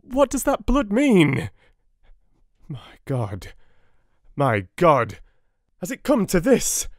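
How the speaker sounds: high, loud panicked questions; pleading in rising terror; frantic panic. A narrator's reading. Husband begging the doctors for answers, panicked and high.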